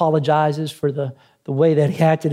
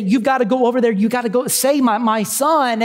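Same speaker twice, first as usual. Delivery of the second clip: mild mock scream; 5 semitones higher than usual. Dad telling the guide to save his son, urgent. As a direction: imitate a father pleading, held short of a scream. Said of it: "he's screaming at the, the guy".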